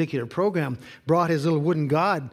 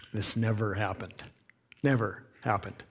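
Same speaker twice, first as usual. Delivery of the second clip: hushed emphasis; 6 semitones lower, 6 dB quieter than usual. Real, not acted. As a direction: lower and softer, stressing never. Stressing the husband's change.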